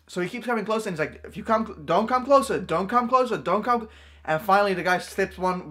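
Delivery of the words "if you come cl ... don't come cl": retold warning. Dad repeatedly warns the attacker.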